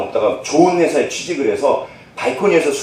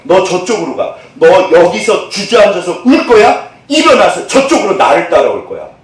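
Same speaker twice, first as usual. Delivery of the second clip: 1 God's challenge; 2 semitones higher, 4 dB louder than usual. Acted.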